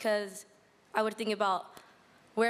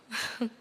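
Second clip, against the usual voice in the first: nervous laugh. Real, not acted. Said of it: "Sorry, I'm nervous".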